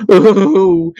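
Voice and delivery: a short, loud cry of despair. Acted. Old man at the bar, in despair over his missing daughter, cries out. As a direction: let out an old man's despairing "Oh!". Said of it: "came the most despairing cry".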